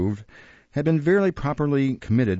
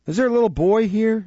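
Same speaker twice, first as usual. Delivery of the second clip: mock sob; 12 semitones higher, 4 dB louder than usual. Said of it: "with a preliminary sob".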